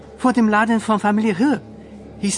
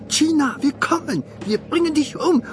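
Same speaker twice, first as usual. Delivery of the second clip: raised-pitch imitation of the mob's chant; retold threatening chant, higher; mock mob threat; 8 semitones higher than usual. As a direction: echo the attackers menacingly.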